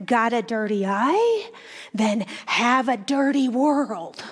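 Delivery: put-on a light Jewish Russian accent, knowing chuckle; grandmother's Russian Yiddish lilt, slowed at the end; thick Jewish Russian accent. Grandmother teasing her grandson, in a light Jewish Russian accent. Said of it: "in her thick Jewish Russian accent".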